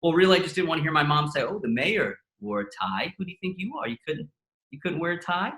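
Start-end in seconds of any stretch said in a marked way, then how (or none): 1.4-5.5 lightly voiced teasing mother; a hint of a needling mom; mock nagging mom. Comedian imitating his mom zinging him, lightly mocking. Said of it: "that's how I hear her when she's zinging me".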